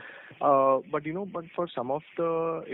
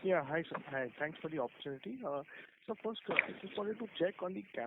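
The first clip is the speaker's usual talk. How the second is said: very faint, distant voice; words almost lost, very quiet; barely audible; 3 semitones higher, 10 dB quieter, faster than usual. Real, not acted. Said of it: "Your voice is very low".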